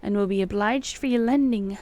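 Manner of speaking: put-on deliberate, emphatic old-fashioned letter voice; declaimed antique correspondence, lightly put on; archaic letter reading. A narrator's reading. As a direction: read the old letter exactly as spelt, quaint spellings and all. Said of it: "me trying to read exactly as it is written".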